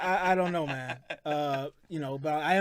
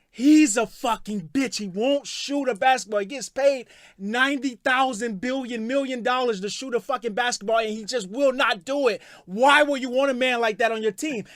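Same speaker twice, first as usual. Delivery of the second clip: heated retort; 4 semitones higher, 4 dB louder than usual. Retold or imitated. Retelling his own heated reply.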